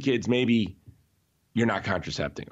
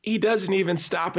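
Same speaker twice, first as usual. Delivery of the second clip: ordinary talk, nothing marked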